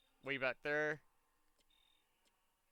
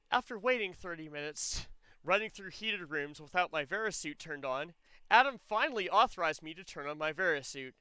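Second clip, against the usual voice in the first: lightly voiced robotic monologue; a hint of robotic recital, mildly put on; Samus's robotic voice. Gamer mocking Samus's narration of waiting for Adam, mildly robotic. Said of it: "my best impression of Samus's voice here. Her robotic voice".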